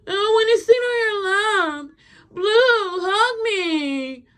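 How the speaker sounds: high-pitched mock wail; tearful begging. Girlfriend pleading to sit on boyfriend's lap, mock crying. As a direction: beg like a clingy girlfriend in tears.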